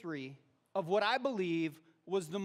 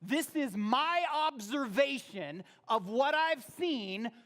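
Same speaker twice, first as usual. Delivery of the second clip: quoting David; 5 semitones higher, 4 dB louder, slower than usual. Retold or imitated. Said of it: "David is saying".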